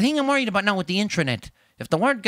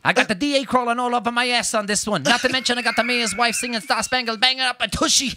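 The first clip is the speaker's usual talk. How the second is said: cop movie police chief; 6 semitones higher than usual. Acted. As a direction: yell like a movie police captain. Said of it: "it's every cop movie".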